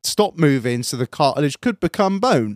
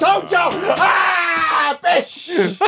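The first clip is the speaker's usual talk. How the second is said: gloating triumph; 14 semitones higher, much slower than usual. Retold or imitated. Triumphant gloating at doctor's verdict.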